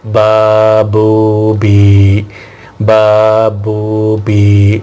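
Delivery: slow, drawn-out spelling for learners; slow syllable drill. Shown as a demonstration. Teacher drilling students in slow syllable spelling. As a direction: spell each sound out slowly and clearly. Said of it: "یہ دیکھیں،".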